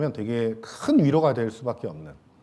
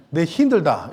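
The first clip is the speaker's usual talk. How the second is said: 내 힘들다 in a light Gyeongsang dialect tune; Gyeongsang accent; 3 semitones higher, 5 dB louder than usual. Shown as a demonstration. Pastor demoing a Gyeongsang dialect phrase to the church. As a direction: try a Gyeongsang dialect line, a bit hammed. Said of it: "경상도 버전으로 하면".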